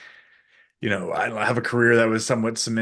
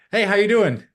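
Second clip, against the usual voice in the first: chirpy small talk; 9 semitones higher, 5 dB louder than usual. Retold or imitated. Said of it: "they just go".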